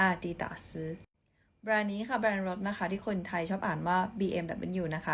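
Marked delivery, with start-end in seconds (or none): 0.1-0.6 "Adidas" said the Mandarin way as a-di-da-si, slowly; slow Mandarin "Adidas" with Chinese tones; Chinese reading. Shown as a demonstration. Teacher showing viewers how Chinese say Adidas, slow Mandarin sounds. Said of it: "คนจีนอ่านว่า".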